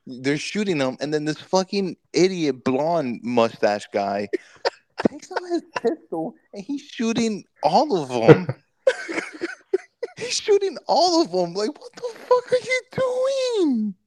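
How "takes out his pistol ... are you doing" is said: high, laughing retelling of the gunman; cracking up while telling it; laughing disbelief. Real, not acted. Friend laughs through the plane shootout story.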